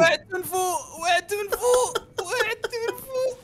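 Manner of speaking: rising high panicked wail; panicked cry. Real, not acted. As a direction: cry out while falling. Falling in the game.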